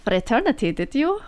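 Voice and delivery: menacing mentor. Acted. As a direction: gloat over the captured pupil.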